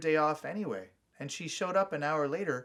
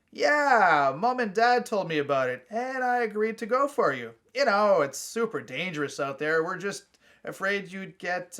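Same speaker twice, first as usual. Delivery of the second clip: Donnie, insistent; 5 semitones higher, 6 dB louder than usual. A narrator's reading. Brother explains parents' plan.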